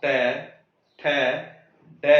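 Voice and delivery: ट, ठ, ड each set down easily, separately; gently placed tongue. Shown as a demonstration. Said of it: "मैं आराम आराम से रख रहा हूँ". (ट, ठ, ड आराम से)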